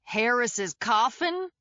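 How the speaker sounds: slow, amused echo of "Harris's coffin?"; amused grin. Acted. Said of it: "he said with a grin".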